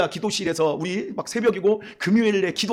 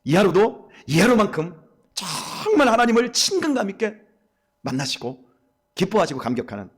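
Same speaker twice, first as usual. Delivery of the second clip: closing prayer; 4 semitones lower than usual. Acted. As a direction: pray it gently, letting each phrase settle.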